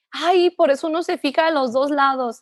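snide know-it-all remark; sassy, mocking tone. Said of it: "el comentario sassy fue".

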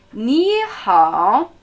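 careful Mandarin tones on Ni Hao; second and third tone. Shown as a demonstration. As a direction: model Ni Hao with a climb, then a dip. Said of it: "zweiter und dritter Ton".

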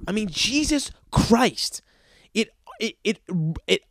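exasperated whisper. Real, not acted. Exasperated after rant.

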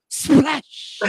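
drawn-out hissing splash; imitated splash. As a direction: mimic a big splash in water. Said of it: "I heard something go".

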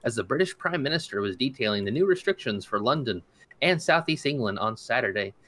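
steady, even news-reader delivery. Acted. Host reading a Brexit news story to listeners, news-read style. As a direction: read it like a wire report to listeners.

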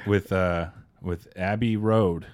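slow jazz radio track intro; lightly voiced, drawn-out jazz DJ. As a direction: fill in the title like a slow radio host. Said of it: "Will you do a jazz D J".

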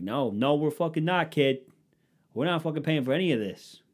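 put-on high-pitched Boston-accent protest; mock defiant refusal. Acted colonists refusing in Boston accent.

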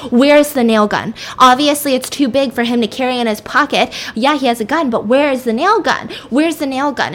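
moderately heated, insistent retold questioning; getting mad. Woman demanding the nail gun from the girl, acted anger. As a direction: act out mounting anger, insisting. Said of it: "she's getting mad".

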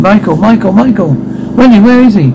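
high-pitched urgent calls; alarmed calling. Acted. Players searching for vanished Michael, alarmed. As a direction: call out in mounting alarm.

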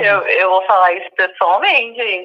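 on speakerphone. Real, not acted. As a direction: voice over a phone speaker. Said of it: "Tem no Viva Voz".

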